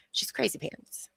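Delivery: hushed gossip whisper. Real, not acted. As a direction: whisper it like a secret. Gossiping aside about Laura.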